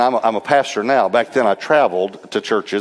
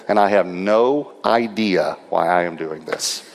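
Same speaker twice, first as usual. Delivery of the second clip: slow, puzzled delivery, lower at the end; baffled boss; 3 semitones lower, slower than usual. Retold or imitated. Boss giving an unexplained raise, slow and baffled. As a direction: draw it out in bewilderment. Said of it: "or how he said it".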